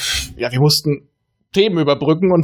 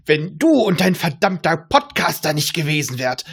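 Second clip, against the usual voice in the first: cartoon villain; 4 dB quieter than usual. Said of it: "die Maske am Ende vom Kopf reißen und sagen".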